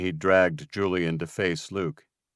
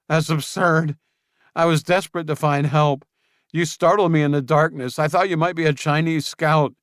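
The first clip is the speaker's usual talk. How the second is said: high, loud indignant denial; Julian indignant; 10 semitones higher, 7 dB louder than usual. Acted. Julian angrily denying the scout's story, high and loud. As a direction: brush off the charge as absurd.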